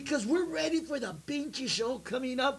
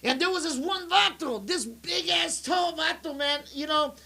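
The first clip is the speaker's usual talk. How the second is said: wrestling promo voice. Pretend. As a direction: hype it up like a ring promo. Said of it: "You're doing this thing with your voice".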